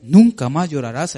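rising proclamation. Shown as a demonstration. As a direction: declare it to the congregation. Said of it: "como dice aquí".

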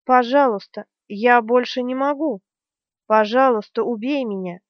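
a touch of a crying plea; desperate plea. Acted. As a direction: beg him to end it, hammed lightly. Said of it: "вскричала Бердина".

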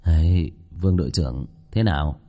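low-pitched, easy address; composed shop owner. Acted. Owner checking on the frightened captain, composed low voice. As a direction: speak low and unruffled.

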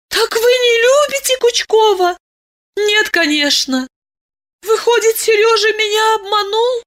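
high-voiced, naive girl in dismay; a young girl realising she was deceived; upset young girl. Masha asking Diana about Kuchkov, high dismayed girl.

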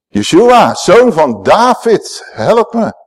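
a slow, drawn-out plea for help; pleading cry. Retold or imitated. The sick and deaf cry out to Jesus, slow and pleading. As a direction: beg him, stretching out the words.

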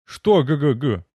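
teasing imitation of a stammer; mocking stutter. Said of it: "передразнил я начавшего заикаться".

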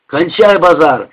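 yelling. Acted. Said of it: "заорал Женька".

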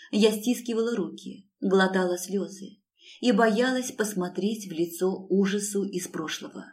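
usual speaking voice

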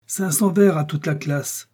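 slow, high, furious decree. A narrator's reading. Teacher punishing the noisy class, slow and furious. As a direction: hammer out the punishment slowly. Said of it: "d'une voix furieuse".

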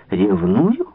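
надменно, с лёгким подъёмом; переспросить свысока; надменный возглас. A narrator's reading. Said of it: "надменно воскликнула принцесса". (надменно переспрашивая)

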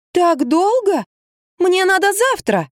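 high, slow pleading; impatient heroine. A narrator's reading. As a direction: push for tomorrow. Heroine impatient, wants it sooner.

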